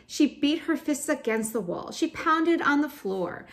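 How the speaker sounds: high-pitched, animated verse; dramatic poem narration. A narrator's reading. Teacher narrates a girl's tantrum to students, animated high reading. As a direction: tell the tantrum with mounting drama.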